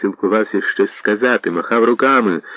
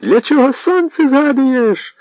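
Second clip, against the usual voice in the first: crowd grumbling; 3 dB louder, slower than usual. Acted. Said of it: "загуло віче".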